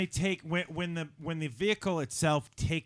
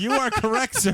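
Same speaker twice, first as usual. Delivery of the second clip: Ed McMahon impression; 7 semitones higher, 5 dB louder than usual. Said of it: "my Ed McMahon".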